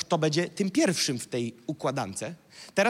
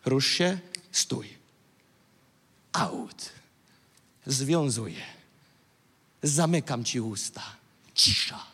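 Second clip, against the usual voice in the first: calm commands; 4 semitones lower than usual. Shown as a demonstration. Demonstrates calm commands at stronghold.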